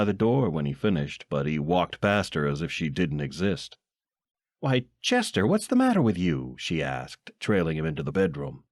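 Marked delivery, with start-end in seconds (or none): 4.6-6.6 high, fast fretting wife voice; worried wife. Acted. Wife asking husband what's wrong, high worried voice. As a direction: voice a fussing housewife, pitched up.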